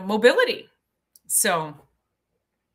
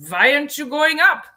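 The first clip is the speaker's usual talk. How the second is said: higher, louder call to the group; lightly voiced old German hiker; old man calling; 7 semitones higher, 8 dB louder than usual. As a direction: call down teasingly from the rock. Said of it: "And he's".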